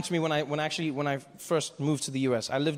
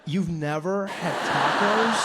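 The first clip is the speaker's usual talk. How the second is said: slow disbelief; 5 dB louder, much slower than usual. Retold or imitated. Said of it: "Dave's disbelief".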